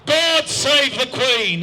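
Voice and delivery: slow ringing patriotic cry; yelled toast. Retold or imitated. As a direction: belt it out to the heavens, slowly. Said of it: "looked to the heavens and yelled".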